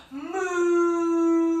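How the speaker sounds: slow drawn-out cow moo; a lightly voiced cow moo; little moo. Shown as a demonstration. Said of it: "maybe you make a cow noise".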